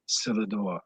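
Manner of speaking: "cellar door" in a light French accent; a hint of French accent on "cellar door". Shown as a demonstration. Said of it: "if you say it with a French accent".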